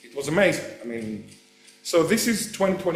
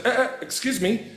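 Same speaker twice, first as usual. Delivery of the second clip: pedantic logician; 5 semitones higher than usual. Retold or imitated. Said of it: "if you're a logician, you say".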